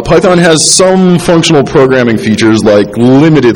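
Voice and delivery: limited said slowly with weight; stress on limited. Shown as a demonstration. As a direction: lean on the word limited. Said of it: "I stress limited".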